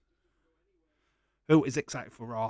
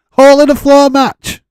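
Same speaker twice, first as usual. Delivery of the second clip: shouts it high through a laugh; cracking up at his own joke; 22 dB louder than usual. Real, not acted. To the chat, laughing and shouting the name.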